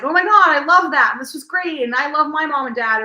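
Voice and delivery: bubbly, high-pitched retold praise; lighthearted gushing. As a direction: gush like a delighted audience member. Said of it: "I have lighthearted conversations with people".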